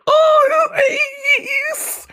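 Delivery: high, breathless swoon; loud lovestruck squeal. Retold or imitated. Minako swooning inwardly over Ace.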